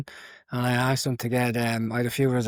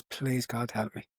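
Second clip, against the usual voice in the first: hushed prayer; 6 dB quieter, slower than usual. Retold or imitated. Praying to the statue.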